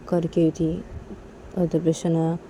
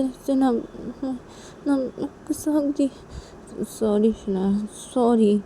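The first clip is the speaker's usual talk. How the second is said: put-on higher, cajoling girl's voice begging forgiveness; pleading apology; 4 semitones higher than usual. Tisha hugging Shanaya on the bed, higher pleading apology. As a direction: coax her, climbing higher on ना ना.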